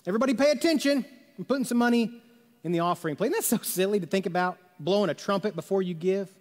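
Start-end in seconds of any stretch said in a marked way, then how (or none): 0.1-3.3 higher, quick mock announcement; lightly hammed-up call for everyone's attention; mock showy announcer. Showy giver announcing a donation to the church, mock announcement.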